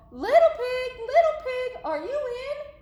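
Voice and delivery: high, loud call. Acted. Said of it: "so I called".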